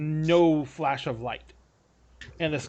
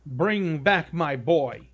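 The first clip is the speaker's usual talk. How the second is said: earnest plea. Acted. Father sends party after his son, earnest.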